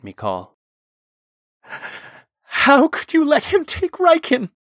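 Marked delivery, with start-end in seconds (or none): 2.4-4.5 high, loud anguished cry; distraught shriek; shaking, unhinged wail. A narrator's reading. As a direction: wail the accusation, coming undone. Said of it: "Talon wailed, his voice shaking and unhinged".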